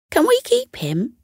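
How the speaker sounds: put-on high, pleading child; eager boy. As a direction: beg to keep the pet. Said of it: "asked Elliot".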